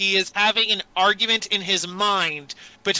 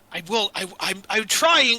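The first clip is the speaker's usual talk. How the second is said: put-on struggling, straining man's voice. Retelling a scene where a man clutches his head, speaking to himself: acting out a struggling man. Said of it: "you hear him being like".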